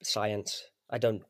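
soft, trailing Welsh lilt, laughing at the end; a natural Welsh accent, quiet and amused; proper Welsh. Real, not acted. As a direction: let the Welsh come through, dropping away. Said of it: "That was proper Welsh".

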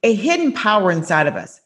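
podcast host intro. Acted. Host welcoming listeners before the guest joins, upbeat announcer read. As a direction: read the opening like a polished announcer.

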